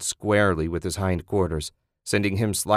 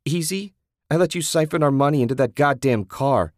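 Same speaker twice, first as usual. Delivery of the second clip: incredulous anger; 6 semitones higher, 4 dB louder than usual. Acted. Susan incredulous then angry.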